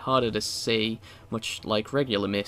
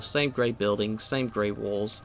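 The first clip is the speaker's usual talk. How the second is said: slowing down word by word; slowing emphasis; slower than usual. Real, not acted. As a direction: drag each phrase out more. Listing identical grey environments.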